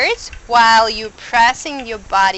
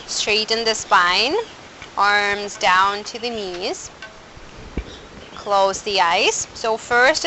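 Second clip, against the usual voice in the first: guided meditation. Acted. Guided pranayama setup.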